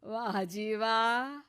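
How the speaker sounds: slow, drawn-out sarcastic wah ji wah; mock the song with slow applause in the voice; slow sarcastic praise. Mother-in-law mocks the singing.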